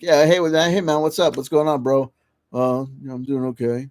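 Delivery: casual 'hey man' drawled lightly, fading to his own voice; lightly imitated dude voice. Imitating a coworker's voice for podcast listeners, lightly done. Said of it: "he would kinda talk like this".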